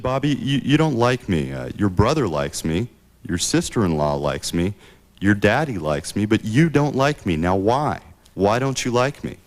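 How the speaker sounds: a hint of LBJ cornering Bobby; pleading Johnson, no twang. Johnson corners Bobby in the kitchen, mildly voiced pleading. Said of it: "I'm not gonna do my Texan twang".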